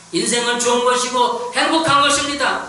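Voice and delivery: high, loud pulpit declaration; emphatic sermon climax; forceful preaching. Acted. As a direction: proclaim it to the congregation with full force. Preaches the closing affirmation.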